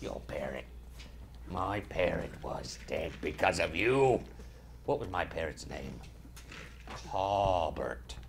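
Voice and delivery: a hint of a salty pirate. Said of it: "So I'm talking like a pirate now".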